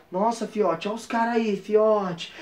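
low, very soft alert to friends; hushed warning. Retold or imitated. Kids warning each other of the police car, hushed. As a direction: drop right down as if not to be overheard.

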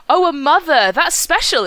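high, wide-eyed dragon voice; Temeraire. Retold or imitated. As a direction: imitate an innocent young dragon's wonder. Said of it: "And Temeraire goes".

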